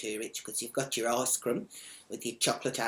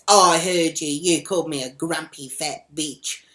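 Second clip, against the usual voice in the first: loud acted-out accusation, pitched up; angry accusation; 3 semitones higher, 10 dB louder than usual. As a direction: imitate an irate woman accusing someone. Woman accusing, in acted quarrel.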